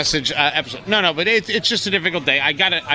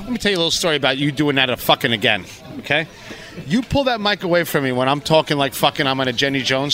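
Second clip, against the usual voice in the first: mock angry. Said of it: "Angry Carl".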